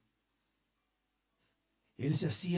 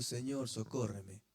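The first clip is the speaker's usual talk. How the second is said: pleading woman; 7 semitones lower, 7 dB quieter than usual. Acted. Woman begging Jesus.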